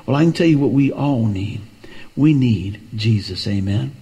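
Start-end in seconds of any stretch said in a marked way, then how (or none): 2.2-3.5 lower, slow and deliberate; slow emphatic point. Real, not acted. Preacher driving home his point, low and slow. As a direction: lean on each word, slowly.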